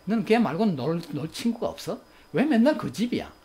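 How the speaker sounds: acted exasperated comeback to a child; angry retort. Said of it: "이런 분노의 대꾸". (버럭 화내며 따지듯)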